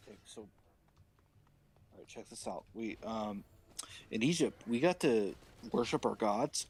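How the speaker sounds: nervous Aaron. Acted. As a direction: stall like someone caught out. Aaron voiced low.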